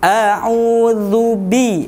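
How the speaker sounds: slow a'udzu bi with a slight smile; thin dzal, lips smiling; light, smiling. Shown as a demonstration. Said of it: "sedikit tersenyum".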